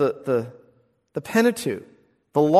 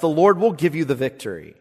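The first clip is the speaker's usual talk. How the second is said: proclaiming loudly; 3 semitones higher, 4 dB louder than usual. Acted. Preacher voices the Lord's promise.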